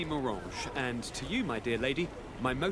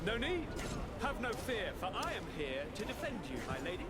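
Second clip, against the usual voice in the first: softer and gallant; softly reassuring; 3 semitones higher, 8 dB quieter than usual. Acted. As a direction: promise protection gently.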